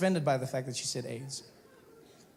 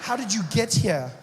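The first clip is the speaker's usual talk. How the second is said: pointed question thrown back, less high; mocking retort; 3 semitones higher, 4 dB louder than usual. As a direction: fire her question back at her.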